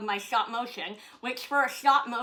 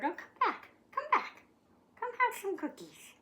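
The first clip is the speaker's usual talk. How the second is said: laughing dog coax; 11 semitones higher than usual. Real, not acted.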